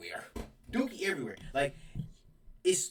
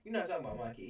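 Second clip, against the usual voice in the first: defensive mom; 4 semitones higher than usual. Retold or imitated. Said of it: "she like".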